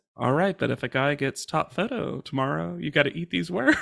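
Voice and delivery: muttering under the breath. Retelling a quiet reply to an insulting remark: imitating muttering under breath. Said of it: "under his breath".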